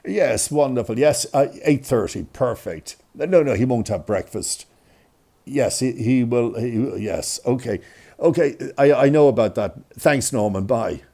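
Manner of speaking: mother's phone manner, lightly imitated; brisk, polite telephone replies, a touch put on; doctor's voice. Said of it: "the doctor's voice on the phone".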